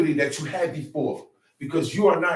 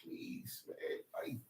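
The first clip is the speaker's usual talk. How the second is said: soft, half-whispered pleading to a son; imitating a pushover parent begging; mock pleading; 3 semitones higher, 7 dB quieter, slower than usual. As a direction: beg him gently, mocking the soft approach. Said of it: "I don't plead it with my son".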